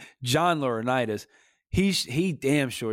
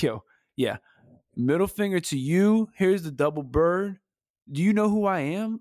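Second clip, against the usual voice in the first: hammed-up cocky taunt, higher at the end; mock arrogant taunt; 5 semitones higher than usual. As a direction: sneer it like a smug boss flipping the double bird.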